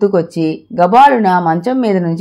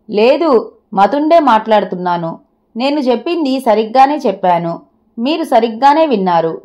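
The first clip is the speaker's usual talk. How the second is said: mild emphasis on సరిగ్గానే; firm insistence. A narrator's reading. Wife insisting to her husband, సరిగ్గానే stressed. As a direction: press lightly but firmly on సరిగ్గానే. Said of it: "నొక్కి చెప్పిందామె".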